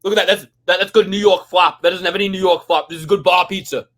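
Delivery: loud pizza reviewer voice; loud, brash pizza review; Dave Portnoy impression. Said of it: "Dave Portnoy".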